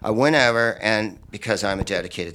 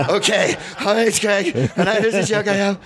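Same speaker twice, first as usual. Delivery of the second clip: much higher, meek little voice; timid nervous comic; 9 semitones higher than usual. Retold or imitated. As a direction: sound like a scared newcomer easing in. Comic meekly starting his set.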